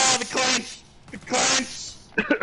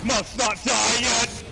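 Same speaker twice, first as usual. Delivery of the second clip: desperate cry; slower than usual. Real, not acted. Desperate in-game struggle.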